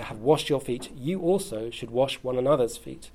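measured Bible reading to the congregation; scripture reading. Acted. Preacher reading scripture aloud to the church, measured. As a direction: read the passage out, unhurried.

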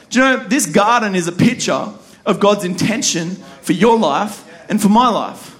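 earnest, steady sermon voice; preaching. Acted. Pastor teaching the congregation about the garden, preaching. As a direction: preach it with conviction.

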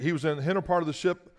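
brisk verse read aloud; reading the verse to the congregation; scripture reading. Shown as a demonstration. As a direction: read the verse straight from the page. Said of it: "look at what they said in verse thirty-eight".

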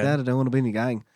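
lightly voiced British son; British accent. Son pleading with his dad, light British accent. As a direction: try a mild British accent. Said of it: "I think he's more British".

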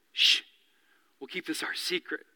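dropped to a near whisper, confiding; hushed secret. Retold or imitated. Pastor voicing Jesus to the healed man, hushed and confiding. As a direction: lean in and keep it secret.

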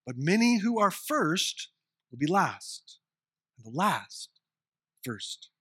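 measured, solemn Bible reading; formal public reading of Matthew; scripture reading. Acted. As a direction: read the passage with reverent weight. Reads the scripture passage aloud.

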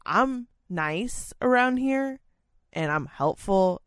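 high, drawn-out sweetness; smug high voice. Retold or imitated. Narrator to her boss, slow, high, smug. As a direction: stretch it out smugly. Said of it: "I was trying to be like".

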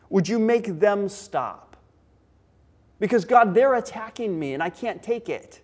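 mildly acted pleading prayer; David crying out. David asks God to stop his attackers, pleading. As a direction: plead with God, building in intensity. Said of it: "he's just crying out to God".

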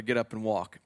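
lightly voiced Jesus giving a calm command to the man; mild command. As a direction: say it as a simple falling order, barely acted. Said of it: "Hey, hey, brother".

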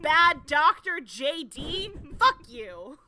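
loud, hammed-up New York insult; mock-tough New York accent. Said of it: "why I'm doing this accent".

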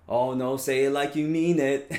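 insistent parent. Retold or imitated. Parent firmly telling son to apologize properly, insistent. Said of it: "we have to say things like".

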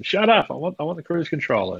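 bratty inner ego shouting down the soul. Retold or imitated. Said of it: "ego's retort in the ego-soul dialogue".

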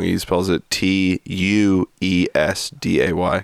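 T U E S D A Y spelled letter by letter, slow; spelling it out. Shown as a demonstration. Friend spelling out the misspelled poster word. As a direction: spell out each letter of T U E S D A Y slowly. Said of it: "he spells it wrong".

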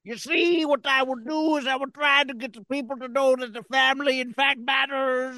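Bill Cosby impression. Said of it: "Bill Cosby".

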